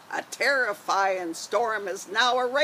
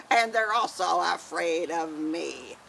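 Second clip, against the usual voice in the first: pirate voice; 4 semitones lower than usual. Acted. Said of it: "gonna be Janie with her pirate voice".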